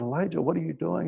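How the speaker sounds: soft, hushed question; gentle divine voice. Retold or imitated. God's gentle voice to Elijah.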